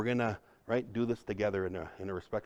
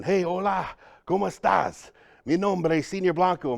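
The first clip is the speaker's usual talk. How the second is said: higher-pitched, hearty Spanish hello; eager greeting; 6 semitones higher, 4 dB louder than usual. Retold or imitated. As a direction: greet a newcomer with big enthusiasm. Greeting his first Latino student.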